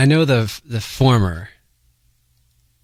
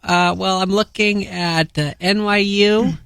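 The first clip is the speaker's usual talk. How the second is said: put-on young teen caller voice; teenage boy; 3 semitones higher than usual. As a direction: play a nervous teen asking. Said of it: "That's my teen voice".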